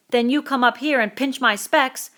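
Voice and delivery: put-on a wronged boy pleading his case; Piggy indignant. Piggy defending himself to Ralph, indignant.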